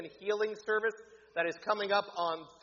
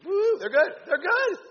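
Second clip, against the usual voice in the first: higher, louder, laughing delight; laughing rave; 13 semitones higher, 9 dB louder, slower than usual. Real, not acted. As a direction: gush over the slushie through a laugh. Raving about mango slushies.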